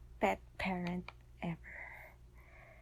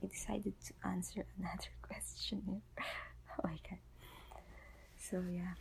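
sleepy, worn-out whisper; drowsy late-night whisper; tired voice; 7 dB quieter, faster than usual. Real, not acted. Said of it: "excuse the tired voice".

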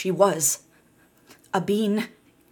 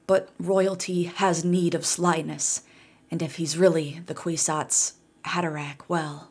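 put-on tired old voice. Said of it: "wheezed the old woman".

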